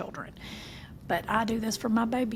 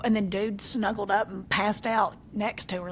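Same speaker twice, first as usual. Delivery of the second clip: ordinary talk, nothing marked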